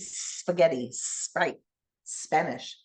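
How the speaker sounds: spaghetti, Sprite, Spanish with a hissed s up front; clear s blends. Shown as a demonstration. Teacher models s blends for learners. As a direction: teeth showing, lean on the s at the start. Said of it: "Show me your teeth".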